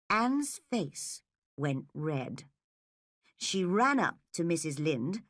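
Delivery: plain reading voice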